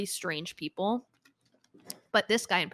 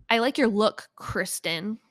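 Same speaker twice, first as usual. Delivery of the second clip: creepy customer voice; slower than usual. Retold or imitated. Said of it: "Said it like that".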